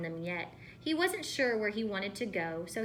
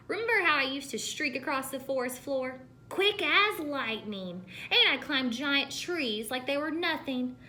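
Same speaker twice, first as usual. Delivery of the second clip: boasting; 4 semitones higher, 3 dB louder than usual. Acted. Old Green boasts of past.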